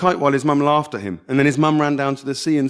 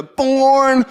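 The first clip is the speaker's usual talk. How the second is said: high, loud shouted word; boy star-jumping and shouting at the camcorder; 13 semitones higher, 6 dB louder than usual. Acted. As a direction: yell it into the camera lens.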